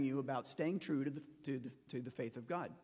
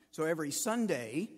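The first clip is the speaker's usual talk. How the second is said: "So every Sunday," leaned on hard, a bit louder; emphatic retold question; 4 dB louder than usual. Facilitator pressing the pastor about his Sundays, emphatic. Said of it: "he said that with emphasis".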